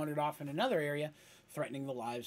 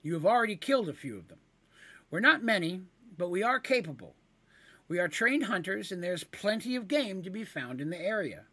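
higher, earnest kender pleading; higher voice, bargaining earnestly; 4 semitones higher, 4 dB louder than usual. Acted. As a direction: make the case to a monster.

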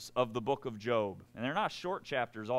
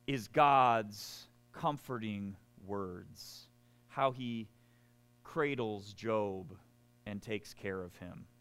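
mock tender; 4 semitones lower, slower than usual. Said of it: "So comforting, right?".

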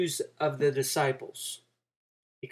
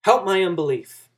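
desperate father; 4 dB louder than usual. Acted. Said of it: "So he says".

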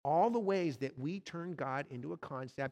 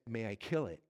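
low, steady angel voice; calm angel; 6 semitones lower than usual. Acted. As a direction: ask it gravely, unhurried, as a towering angel. Angel in retold C S Lewis story.

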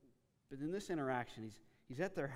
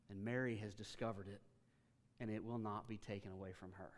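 gentle tone; 2 semitones lower than usual. Retold or imitated. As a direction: speak to Martha kindly but truthfully. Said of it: "You hear his tone".

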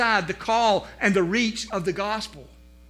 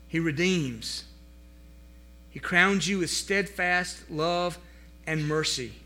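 tender list; slower than usual. Acted. Pastor listing God's benefits, slow and tender. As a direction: lay each benefit down gently.

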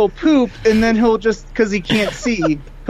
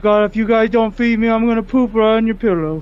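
dog voice; 3 semitones higher, faster than usual. Retold or imitated. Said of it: "what is your dog's voice".

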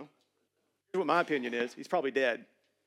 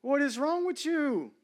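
higher scolding parent voice; 8 semitones higher than usual. Retold or imitated. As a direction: tell off a child. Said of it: "That's what we tell our children".

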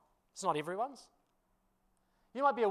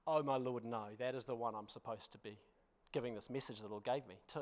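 hushed inner thought; 7 semitones lower, 9 dB quieter than usual. Retold or imitated. Retold panicked inner thought.

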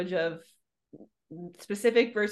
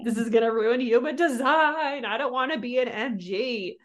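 higher, imitated fretting; mock dismay; 4 semitones higher, 3 dB louder than usual. Recalling her reaction to the sidereal fad, mock dismay. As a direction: replay a dismayed reaction, pitched up. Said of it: "and I was like".

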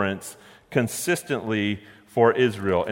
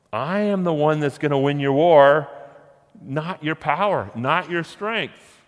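loud and higher, then slowing on the last words; declaring God's voice; 5 semitones higher, 4 dB louder than usual. Acted. Preacher voicing God's promise to Gideon, loud and drawn out.

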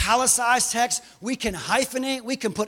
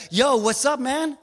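too-casual greeting; 3 semitones higher than usual. Acted. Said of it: "Don't treat him common".

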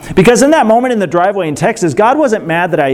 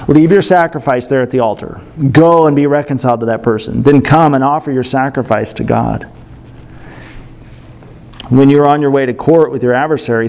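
lower, even read-aloud voice; scripture reading; 5 semitones lower, faster than usual. Real, not acted. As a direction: read the verse out to the congregation. Reads Bible verses aloud.

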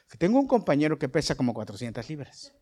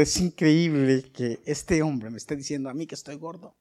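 amused disbelief; 5 dB louder than usual. Retold or imitated. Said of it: "yo me quedé".

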